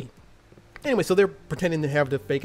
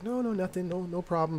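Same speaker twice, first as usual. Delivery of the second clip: higher-pitched, mock-nervous denial; imitating scared denial; 5 semitones higher, 4 dB quieter than usual. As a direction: lightly act out being scared. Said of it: "she's acting really scared".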